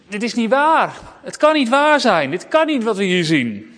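high, loud cry of disbelief; frightened disbelief. Acted. Disciples crying out in fear at the ghost on the water, high and loud. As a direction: gasp it out like you've seen a ghost.

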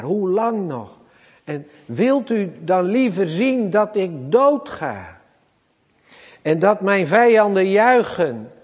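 high, rising, anguished pleading; preacher voicing David begging God; begging plea. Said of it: "zo smeekt David".

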